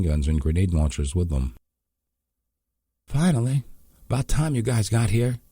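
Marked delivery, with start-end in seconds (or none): 3.1-5.4 much higher, chirpy jibe. Acted. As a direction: chirp it out cheekily. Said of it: "a different voice chirped".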